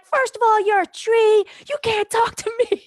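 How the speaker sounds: high, incredulous protest at a talking tree; indignant retort. Retold or imitated. High on ayahuasca, scoffing back at the talking tree.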